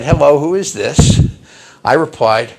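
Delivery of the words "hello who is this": lightly voiced caller, a bit loud; a hint of a grown-up phone voice; disembodied phone voice. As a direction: imitate a stranger on the line. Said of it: "a disembodied voice said".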